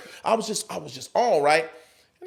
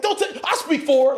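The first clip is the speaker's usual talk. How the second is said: butting in; 9 semitones higher than usual. Retold or imitated. Cutting in for his girlfriend.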